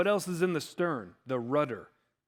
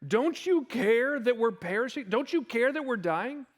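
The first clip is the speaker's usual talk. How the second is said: pleading disciples; 5 semitones higher than usual. Acted. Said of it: "here's what they say".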